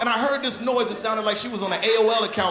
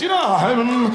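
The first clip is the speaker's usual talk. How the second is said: humming; 5 dB louder, much slower than usual. Shown as a demonstration. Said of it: "hum a little bit".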